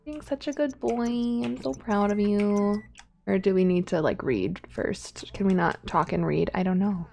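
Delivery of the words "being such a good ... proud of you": doting praise. Pretend. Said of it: "Let's praise his work ethic".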